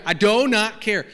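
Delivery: slow, loud, deliberate dealer line; mock car-ad pitch. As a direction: ham up the awkward dealer. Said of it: "He got".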